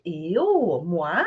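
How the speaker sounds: Moi? stressed as an emphatic me. Shown as a demonstration. Teacher showing emphatic moi. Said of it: "aquele eu enfático".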